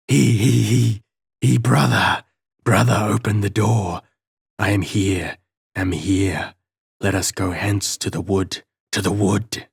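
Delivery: cackle, then stammer the plea; broken stammering voice. A narrator's reading. Mad brother under the floor begging to be let out, stammering. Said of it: "so broken and so stammering".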